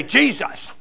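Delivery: exasperated oath, put on; mock angry exclamation. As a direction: imitate someone cursing, without real volume. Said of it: "when he gets mad, he'll say".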